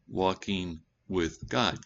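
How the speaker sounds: slow "walking with God", "God" stressed; drawn-out repeated phrase. Shown as a demonstration. Preacher repeating the key phrase slowly. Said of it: "Not God walking with you".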